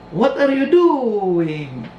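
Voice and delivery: Monsignor asking. Retold or imitated. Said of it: "ang sinabi ni Monsignor".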